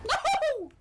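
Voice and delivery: very high, loud cry of dismay; anguished shout. Real, not acted. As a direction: yell out in despair. Sudden loss in game.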